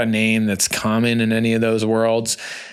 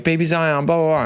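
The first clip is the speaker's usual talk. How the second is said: mock excited friends; 6 semitones higher than usual. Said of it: "And people are like".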